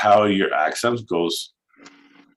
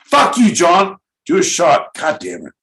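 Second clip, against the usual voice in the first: exasperated outburst; 7 semitones higher, 4 dB louder than usual. Real, not acted. Exasperated at frozen co-host John.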